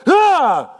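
high, loud cry of fright; acted yelp of terror; startled scream. Fisherman seeing a figure on the sea, startled scream.

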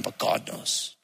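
hushed whisper. Real, not acted. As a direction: breathe it almost silently. Quiet aside about God.

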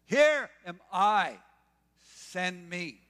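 high, loud, slow here am I; eager offer. Retold or imitated. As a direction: leap at the call to be sent.

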